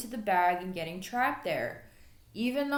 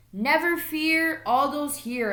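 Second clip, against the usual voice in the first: slightly louder, slow heroic call; a mild cheerful hero call; yelled out; 5 semitones higher, 4 dB louder than usual. Acted. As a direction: announce yourself grandly. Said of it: "another voice yelled out".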